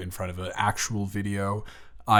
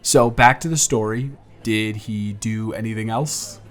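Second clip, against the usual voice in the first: put-on friendly, teasing young man on a first date, livelier and louder than the intro; charming blind date; 7 semitones higher, 9 dB louder than usual.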